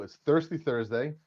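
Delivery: slow, drawn-out announcer intro. Acted. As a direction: announce the name like a ring MC. Announces show and himself.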